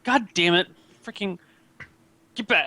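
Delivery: guard curses the ferret off; angry guard shout. Acted. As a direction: snap at the ferret to get back.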